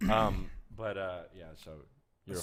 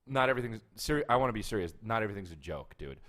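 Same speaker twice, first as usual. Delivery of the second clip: dead serious warning; intense, for-real threat without shouting; aggressive. Pretend. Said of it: "you're fucking getting aggressive".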